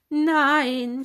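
high, loud shouted Nein. Acted. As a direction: cut her off in alarm. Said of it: "schrien Dennis und Lea gleichzeitig".

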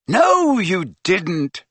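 high, firm denial. Acted. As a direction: shut it down firmly. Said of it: "said Harry firmly".

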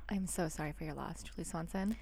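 soft, gentle condolence; gentle grief counselor. Pretend. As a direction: comfort a grieving parent softly. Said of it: "let's pretend this is my first walk".

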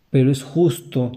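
ordinary talk

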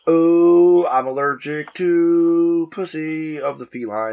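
high, drawn-out prissy voice; slow, lofty and proper; mock posh voice. Mock-posh correction about cats.

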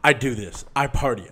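a hint of drunk bravado; drunk party guy. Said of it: "He goes".

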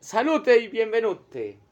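slow, drawn-out Italian-style toast; mock Italian toast.

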